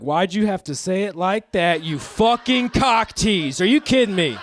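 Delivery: fake-furious comeback to a homophobe; hammed-up indignant jab; mock outrage. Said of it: "I'm like".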